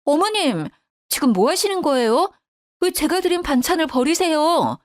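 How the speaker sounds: heated confrontation without full shouting; angry outburst. A narrator's reading. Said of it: "너무 화가 나서 버럭 소리를 질렀습니다".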